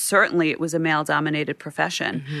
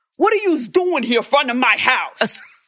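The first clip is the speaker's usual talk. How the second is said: put-on New York mobster voice, higher pitch; 8 semitones higher, 4 dB louder than usual. Retelling an angry man outside his house, like a Goodfellas character. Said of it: "like a character out of Goodfellas".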